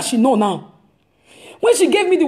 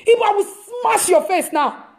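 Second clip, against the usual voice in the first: playful threat; 5 semitones higher than usual. Retold or imitated.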